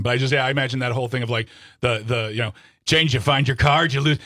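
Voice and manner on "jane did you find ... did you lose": put-on Manchester accent. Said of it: "I do a terrible Manchester accent".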